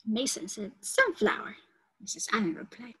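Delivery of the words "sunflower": put-on much higher child's answer. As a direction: chirp it like a young pupil.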